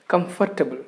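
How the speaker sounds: comfortable with all four syllables, com-FOR-ta-ble; comfortable with the R sounded, stress on for; misplaced stress. Shown as a demonstration. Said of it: "we Indian people pronounce it as".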